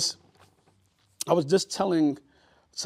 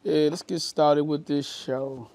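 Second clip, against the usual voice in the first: slow announcer voice; slower than usual. Real, not acted. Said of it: "echoes show opener slowly".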